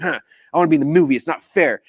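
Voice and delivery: quick, huffy mock pout; huff, then grumble in mild protest; frustrated sulk. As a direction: sulk like a kid left out. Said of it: "so frustrated".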